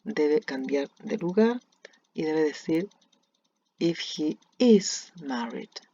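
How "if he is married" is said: slow, each word spaced; slow model sentence. Shown as a demonstration. Teacher modelling the corrected sentence slowly. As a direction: read it slowly for the class. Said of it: "Ahí debería ir el is".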